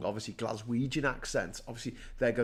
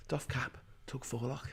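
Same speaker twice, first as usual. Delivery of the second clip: mock deference; 8 dB quieter than usual. Meatheads show deference to posh person.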